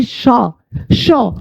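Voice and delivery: "शॉ" as an open SHAW, no R; silent R. Shown as a demonstration. English teacher models shore for learners, silent R. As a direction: say "शॉ" with a long aw and no R. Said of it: "इस चीज को पढ़ेंगे".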